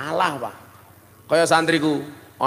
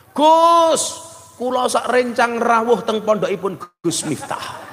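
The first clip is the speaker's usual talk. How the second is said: hammed-up stiff formal guest voice, much higher; a guest stiffly reading his greeting; mimicking the Banser guest; 5 semitones higher than usual. Banser guest at the open house, mock formal. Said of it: "Kula ana rombongan Banser".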